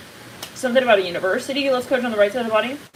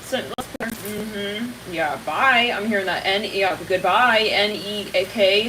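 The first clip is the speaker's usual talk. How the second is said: usual speaking voice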